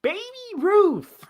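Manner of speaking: put-on high shouted "Babe Ruth!" then "Baby Ruth!"; playful high yell; shouted name.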